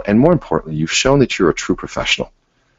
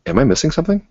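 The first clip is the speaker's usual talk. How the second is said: gentle inquiring tone. Shown as a demonstration. Coach showing a referral partner question, gently curious. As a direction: ask it genuinely and leave room. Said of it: "Same thing. You know, say".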